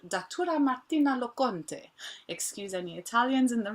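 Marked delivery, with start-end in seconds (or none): 0.1-1.9 attempted Italian accent, pitched a little higher. Shown as a demonstration. Host announces tomorrow's guest from Italy, attempted Italian accent. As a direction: give the name your best Italian accent. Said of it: "That's my best, uh, Italian accent".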